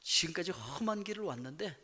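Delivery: ordinary talk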